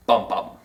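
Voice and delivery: low "Bum bum", both syllables equally stressed; spondee. Shown as a demonstration. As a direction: hit both words of "Bum bum" evenly, back to back. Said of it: "two accented syllables back to back".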